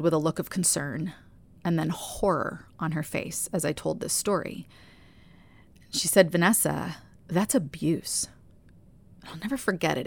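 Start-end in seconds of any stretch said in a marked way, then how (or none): 6.3-8.3 quietly sad, final verdict; sad and definitive. Retold or imitated. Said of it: "It was so sad and definitive the way she said it".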